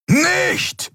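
very high-pitched desperate cry; roar. A narrator's reading. Keru trying to stop Nelen's charge, roared. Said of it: "brüllte Keru".

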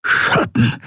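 breathless, voiceless gasp. Acted. Wounded admiral gasping out the answer. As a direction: push the word out on a gasp. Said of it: "keuchte der Admiral".

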